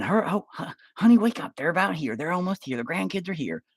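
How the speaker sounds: put-on high, fluttery old woman waking her husband; old wife nudging her husband awake, high and chirpy; old lady voice. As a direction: pitch it up like an excited granny. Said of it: "an old lady turning off the T V saying".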